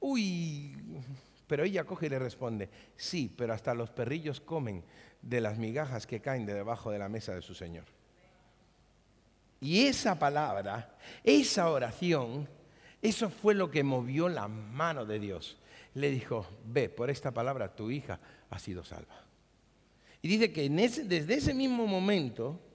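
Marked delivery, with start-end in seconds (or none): 3.0-7.8 humble reply. Acted. Quoting woman's humble reply. 16.6-19.2 gentle pronouncement. Acted. Jesus' words quoted.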